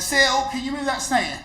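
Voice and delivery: put-on high, slow voice of a confused elderly lady; elderly client asking the visitor to remove a snake; confused old lady. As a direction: ask it high and slow, puzzled and sincere. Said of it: "She went".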